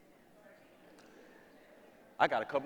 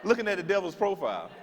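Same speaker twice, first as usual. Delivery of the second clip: mock disbelief; 9 semitones higher than usual. Real, not acted. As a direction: act scandalized at the idea. Comic disbelief at devil's marriage.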